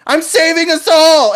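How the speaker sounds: high, drawn-out charging yell; heroic battle cry. Acted. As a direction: shout it loud and high as you charge. Charging hero's battle cry, acted.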